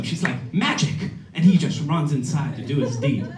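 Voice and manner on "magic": high-pitched mock call to someone outside; retold sing-out of his name. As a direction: imitate her summoning him, pitched way up. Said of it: "calls him".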